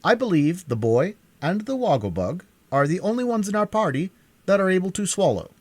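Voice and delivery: a brisk Scarecrow urging them on. A narrator's reading. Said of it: "he continued, looking critically".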